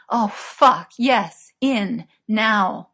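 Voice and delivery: loud, insistent bursts; urgent exclamation. A narrator's reading. Merlin urging his lover on, loud and urgent. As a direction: demand it in short, separate gasps.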